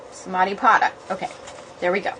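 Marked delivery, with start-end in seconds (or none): 0.1-0.9 "Samadhipada" once more, softer, falling; quieter repeat. Shown as a demonstration. Rehearsing the title alone, softer. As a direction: try "Samadhipada" again under your breath. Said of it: "How do you say the long A".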